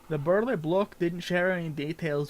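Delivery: lightly voiced gruff pirate-Scottish sailor; NPC voice. Streamer reading an NPC's quest lines aloud, light pirate-Scottish lilt. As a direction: read the quest giver like an old sea dog, lightly.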